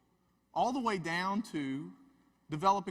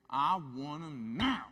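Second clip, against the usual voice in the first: stubborn demand; 2 semitones lower, slower than usual. Retold or imitated. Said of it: "she says".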